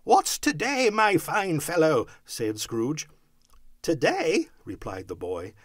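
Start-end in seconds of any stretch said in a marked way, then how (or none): 0.0-2.1 high, loud, jovial question; eager raised voice; calling down. A narrator's reading. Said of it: "calling downward to a boy". 3.8-4.5 high, loud, astonished echo; incredulous young lad; boy's wonder. A narrator's reading. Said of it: "with all his might of wonder".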